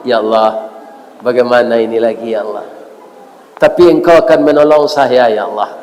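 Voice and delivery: mild, imitated weeping plea, low and subdued; tearful prayer. Retold tearful prayer of a desperate patient, subdued sorrow.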